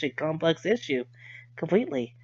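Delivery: running out of breath; breath giving out on the words. Real, not acted. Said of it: "I started running out of breath".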